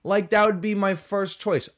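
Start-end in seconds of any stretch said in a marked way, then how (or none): none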